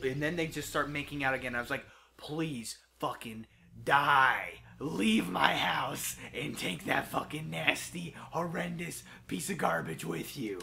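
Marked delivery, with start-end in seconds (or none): 2.2-10.6 retold disgust.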